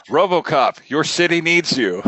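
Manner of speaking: high, slow hammed-up heroic call; mock heroic call. Fan joking about the cartoon, a hammed-up heroic call. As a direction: ham it up like a corny cartoon plea. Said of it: "we're gonna hear any second now".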